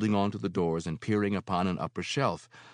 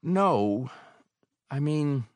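stammering; 9 semitones higher, 5 dB louder, slower than usual. Acted. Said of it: "I stammered".

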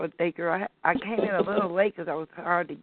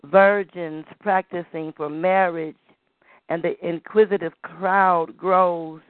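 poem recital. Acted. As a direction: recite like a griot telling tales. Continues poem.

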